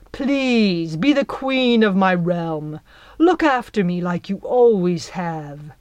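Jack pleading sweetly with his fairy mother; a boy begging his mother to come home; doting son. Acted. Jack coaxes Belle back, syrupy and pleading.

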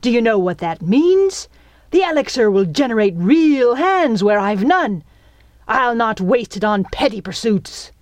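loud, heated pirate rant; snarling. A narrator's reading. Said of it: "he snarled".

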